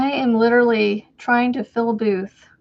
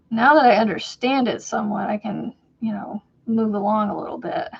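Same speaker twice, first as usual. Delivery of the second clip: whispering. Real, not acted. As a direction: whisper it under breath. Whispering while crocheting.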